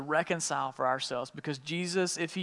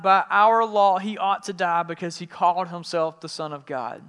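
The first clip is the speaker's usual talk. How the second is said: forceful declaration; 4 semitones higher, 8 dB louder than usual. A narrator's reading. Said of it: "The Jewish leaders replied".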